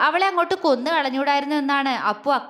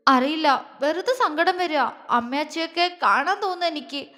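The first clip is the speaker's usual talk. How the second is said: higher, mildly tearful; sobbing; 3 semitones higher than usual. Acted. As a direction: speak through light sobs. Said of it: "അവൾ തേങ്ങിക്കൊണ്ട് പറഞ്ഞു". (തേങ്ങിക്കൊണ്ട്)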